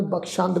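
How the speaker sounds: ਬਖਸ਼ੰਦ as bakh-shand with sh; ਬਖਸ਼ੰਦ spoken quietly with a clear sh; sh in the middle. Shown as a demonstration. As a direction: give ਬਖਸ਼ੰਦ a soft sh, not s. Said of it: "ਸੱਸੇ ਪੈਰ ਬਿੰਦੀ ਲਗਾ ਕੇ".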